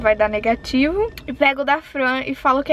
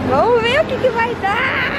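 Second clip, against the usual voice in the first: excited; 11 semitones higher than usual. Real, not acted. Nervous before the prank.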